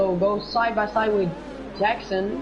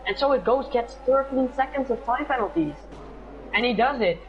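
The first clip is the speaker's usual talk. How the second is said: higher-pitched excited call; excited commentary; 6 semitones higher than usual. Real, not acted. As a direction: build the tension on the move. Overtake attempt, live call.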